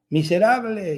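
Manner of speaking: mock child's shout. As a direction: play a boy calling out an insult. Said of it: "grita algo". (grito fingido de niño, agudo y alargado)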